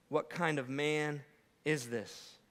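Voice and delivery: slow, soft, awestruck question; awed hush. Acted. Disciples after the storm, asking in awed hush. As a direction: let it drop to a stunned near-hush.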